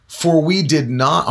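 slow scripture reading. Real, not acted. Preacher starts reading Peter's epistle to listeners, slowly. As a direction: begin the verse slowly and deliberately. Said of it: "I'm gonna read it slowly".

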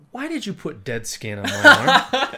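loud, high mock horror; hammed-up incredulous yelp; appalled outburst. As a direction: blurt it out in comic disbelief. Retells his appalled misunderstanding.

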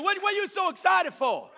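mock-scolding, sour church-folk voice; preacher imitating religious people scolding joy. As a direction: poke fun at the killjoys. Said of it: "Religious people like to tell you".

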